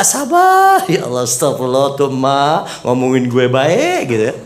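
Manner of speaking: patient wife. Retold or imitated. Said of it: "Diomongin sama tetangga".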